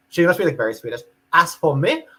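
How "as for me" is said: a put-on generic European accent, pitched higher. Reading a foreign commenter's post in a put-on European accent. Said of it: "How's my European accent?".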